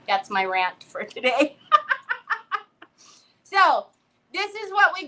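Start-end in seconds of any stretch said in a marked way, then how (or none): 1.7-2.6 high burst of laughter; quick high cackle. Real, not acted. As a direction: laugh off your own rant. Laughing at her own rant.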